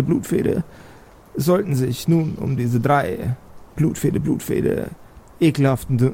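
witch voice chanting a refrain between words; eerie hag skull announcing doom; cackling witch skull. Acted. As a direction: croak the bounty like a hag's broadcast. Skull message resumes.

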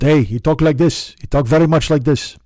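put-on Swedish accent, almost Armenian; Oscar. Showing how the Swedish neighbor talks, imitated accent. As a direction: do a broad mock Swedish accent. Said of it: "I won't do Oscar's accent, but he's from Sweden".

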